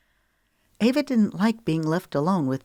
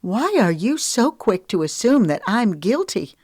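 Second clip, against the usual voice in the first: higher, louder demand; indignant; 5 semitones higher, 4 dB louder than usual. Acted. Woman confronting her accuser, higher and louder. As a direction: push back hurt and angry.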